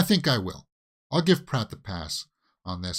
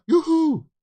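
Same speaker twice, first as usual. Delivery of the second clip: high, loud drawn-out whoop; Mario; 7 dB louder than usual. Shown as a demonstration. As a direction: call it out like a cartoon hero. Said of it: "will sound sort of like Mario".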